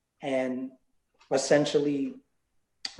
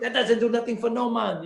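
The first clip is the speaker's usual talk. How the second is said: higher, lightly voiced carefree singer shrugging off money; a light, pitched-up take on an easygoing star; higher, mild dismissive laid-back legend; a singer; 8 semitones higher than usual. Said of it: "You know".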